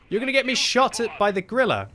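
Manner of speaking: high, loud exasperated yell at a teammate; frustrated yelling. Real, not acted. Yelling at a careless teammate, high and exasperated. Teammate's blunder endangers him.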